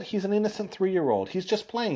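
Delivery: high-pitched earnest defence; defending. Acted. Adviser defends the innocent child.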